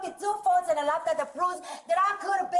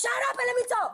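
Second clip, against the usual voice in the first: higher-pitched, heated demand; angry outburst; 5 semitones higher, faster than usual. Real, not acted. Passenger demanding that officers let her talk, angry. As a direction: angrily fight to get a word in.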